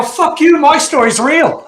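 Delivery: very high, loud mock-outraged retort; retold indignant shout. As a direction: yell it back, hammed-up and drawn out at the end. Acted defiant retort in story.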